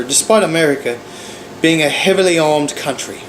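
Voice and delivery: a light put-on British accent for a quoted pundit; mock British accent. Quoting the British TV host in a lightly mocking British accent. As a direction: read Piers Morgan's words in a hint of a British accent. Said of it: "I'm gonna say this in a British accent".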